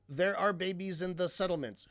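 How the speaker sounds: repeats the comment with disbelief; incredulous quote. Retold or imitated. Mocking a commenter's line to his viewers, incredulous. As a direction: hold the line up as if it's absurd. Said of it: "what the fuck are you trying to say?".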